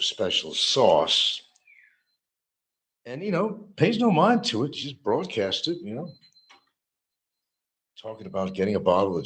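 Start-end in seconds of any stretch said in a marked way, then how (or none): 3.0-6.1 much higher, mocking the cellmate's attitude. Mocking the prisoner who flaunts his privileges, high. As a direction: pitch it up like a smug kid.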